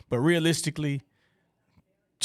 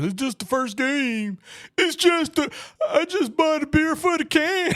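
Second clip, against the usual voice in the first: Homer Simpson impression; 13 semitones higher than usual. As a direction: squeeze the voice way up like a cartoon dad. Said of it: "trying to do my best Homer Simpson impersonation".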